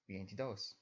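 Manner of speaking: veintidós ending on a stressed dós; stress on last syllable. Shown as a demonstration. Teacher repeating the correct stress, vein-ti-DÓS. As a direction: finish veintidós firmly on dós. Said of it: "it's the last syllable with emphasis".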